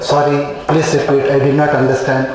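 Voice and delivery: low-pitched, deferential apology; humble. Acted. Doctor asking a platina patient to repeat, humble and low. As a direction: lightly act one step below the listener. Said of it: "am one step below them".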